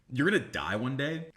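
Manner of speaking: lightly dramatized solemn warning; mock dramatic. Shown as a demonstration. Man deflects her question with mortality, mock dramatic. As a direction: deliver it as a grave pronouncement. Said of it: "I'll literally talk like this. I'll just make it so emotional and so dramatized".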